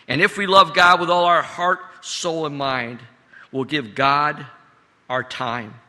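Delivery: preached with rising force. Acted. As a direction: build it up with conviction. Repeated line, preached harder.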